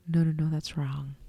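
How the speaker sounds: under-the-breath whisper of "no, no, no". Real, not acted. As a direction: hush it to yourself, embarrassed. Correcting her own slip, hushed.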